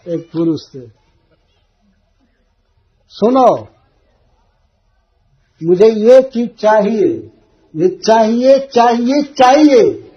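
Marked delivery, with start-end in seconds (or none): 3.1-10.1 rising, louder whiny insistence, building on each चाहिए; a wife pestering her husband for something; nagging demand. Retold or imitated. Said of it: "एक स्त्री को मैं यह भी सुना कहते हुए". (रट लगाकर ज़िद करती पत्नी)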